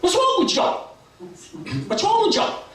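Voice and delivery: very high, perky critter voice; Brer Rabbit. Acted. Rabbit asks the sad critters, very high perky voice. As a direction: call out in a high squeaky rabbit voice. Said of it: "Brer Rabbit comes up".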